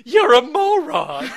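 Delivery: slow mock gruff insult; House impression. Friend as Doctor House insulting, slow gruff. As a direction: drawl the insult like a cranky doctor. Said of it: "whenever I do that voice".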